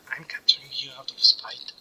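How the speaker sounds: lightly hammed-up boss speech; villain lines read aloud. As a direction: read the enemy's monologue with mock drama. Reads game character's lines.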